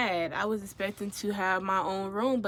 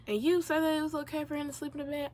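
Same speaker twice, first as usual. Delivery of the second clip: quick, higher-pitched challenge; accusing; 6 semitones higher, faster than usual. Retold or imitated. Roommate challenging her in the meeting, accusing. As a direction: fire it off as an accusation.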